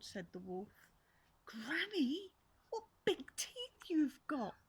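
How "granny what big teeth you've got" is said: fearful cry. Acted. Girl fearful.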